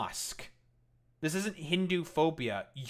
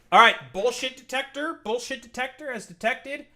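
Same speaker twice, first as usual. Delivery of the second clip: mock announcer; 7 semitones higher, 6 dB louder than usual. Mock announces bullshit detector verdict.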